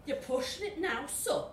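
high grumbling Scouse devil; Scouse grumble. Acted. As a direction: grumble it in Liverpool accent. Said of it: "grumbled Satan".

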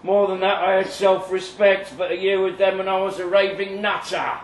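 bitter cult survivor. Acted. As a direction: spit out the grudge against the cult. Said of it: "Eric Jones, self-styled cult survivor".

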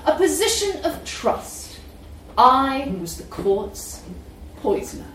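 measured dramatic reading; story reading. Acted. Reading a story extract aloud.

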